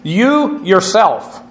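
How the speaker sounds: "You yourself" drawn out slowly for emphasis; stress on You yourself. Shown as a demonstration. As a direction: lean slowly on both words of "You yourself". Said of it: "it's for emphasis".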